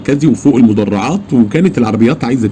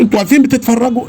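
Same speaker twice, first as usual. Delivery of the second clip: indignant outcry; 12 semitones higher, faster than usual. Retold or imitated. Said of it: "فرحت للضابط قلت له".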